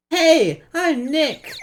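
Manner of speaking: loud call. Shown as a demonstration. Testing a voice-triggered camera, loud shout. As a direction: shout it high and loud into the mic. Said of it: "Maybe I'm not saying it loud enough".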